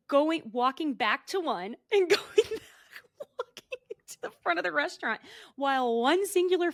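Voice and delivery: high-pitched, laughing through the words; laughing while talking. Real, not acted. Telling co-host about a celebrity posing for a photographer, laughing. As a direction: crack up mid-story, words breaking into laughter.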